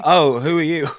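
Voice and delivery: high, loud mock surprise; sudden startled question, hammed up; realising he praised the wrong man, in mock shock; surprised. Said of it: "I was like".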